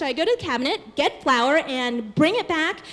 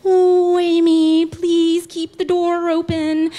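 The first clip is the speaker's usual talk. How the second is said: mother-in-law's voice; 3 semitones higher, 6 dB louder, slower than usual. Retold or imitated. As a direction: call it out like a nagging mother-in-law, slowing on the last words. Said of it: "the voice of my mother-in-law comes to my head and says".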